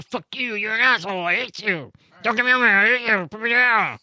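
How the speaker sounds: high-pitched, contained tantrum; squeaky-high creature rattling off insults; angry little demon. Acted. Little demon in a bottle cursing its captor, high angry creature voice. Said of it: "flips you multiple birds and then just goes".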